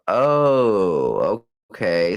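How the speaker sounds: long drawn-out "oh" that falls; real surprise, the penny dropping; dawning realization. Real, not acted. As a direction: stretch the oh as it clicks. Reacts to news of sell-out.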